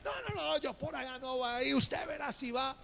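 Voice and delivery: mock dad snapping no; stubborn refusal. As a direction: shut the kid down, no discussion. Father flatly refuses his son.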